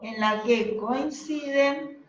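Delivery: slow, measured dictation; dictating. Real, not acted. Teacher repeating a definition for note-takers, slow dictation. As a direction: give them time to write each phrase. Repeats slowly for students writing.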